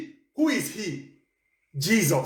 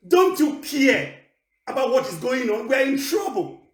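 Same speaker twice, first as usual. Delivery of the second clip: panicked plea; 3 semitones higher than usual. Acted. Disciples in the storm cry out to Jesus, panicked. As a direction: beg him to wake up, half laughing.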